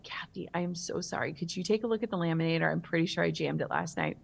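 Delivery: softly voiced, timid apology; sheepish, subdued confession to a coworker. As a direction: own up meekly and softly. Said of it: "I went up to her really timidly".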